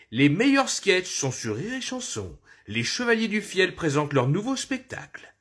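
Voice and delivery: annonce radio plus aiguë; voix de pub radio; voix d'annonceur radio. Shown as a demonstration. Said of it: "faire des voix de journaliste". (annonceur de radio)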